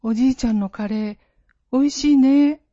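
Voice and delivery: put-on child voice. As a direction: speak for the baby in a child's voice. Daughter speaks as her unborn child.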